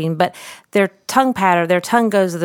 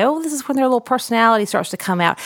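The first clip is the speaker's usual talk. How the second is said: delighted; 5 semitones higher, faster than usual. Retold or imitated. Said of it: "I'll start to say".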